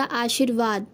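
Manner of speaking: आशीर्वाद with long ee, "aa-sheer-vaad"; correct form. Shown as a demonstration. Teacher giving the correct word, आशीर्वाद with long ee. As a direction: hold the 'shee' in आशीर्वाद. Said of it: "इसका शुद्ध रूप हो जाएगा".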